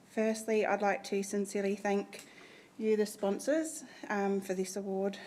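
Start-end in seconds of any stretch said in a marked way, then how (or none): 2.8-5.2 out of breath. Real, not acted. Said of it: "I get very breathless".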